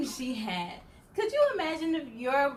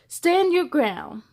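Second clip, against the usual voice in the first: slow, steady "Stand your ground" from a brave bubble; firm hero line; 3 semitones higher, 9 dB louder, much slower than usual. Acted. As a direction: plant your feet and say it firmly, slowly. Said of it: "but Mister Bubble said".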